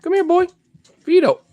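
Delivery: loud, high-pitched holler; calling a dog. Real, not acted. Dog wanders off, owner calls loudly. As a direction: call out sharply up high, dropping at the end.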